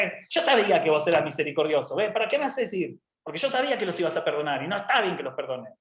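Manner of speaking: fast, peevish complaint; grumbling Jonah. Acted. Jonah scolding merciful God, fast and petulant. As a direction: rattle off the reproach, aggrieved. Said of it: "Jonás se queda como diciendo".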